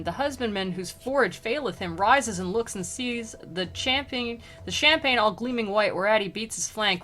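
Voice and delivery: measured verse read aloud; poem reading. A narrator's reading. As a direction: read the old verse evenly, like a narrator. Reads canto aloud.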